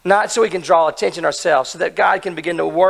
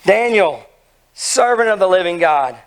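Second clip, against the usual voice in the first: anguished call. Acted. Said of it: "called out to Daniel in an anguished voice".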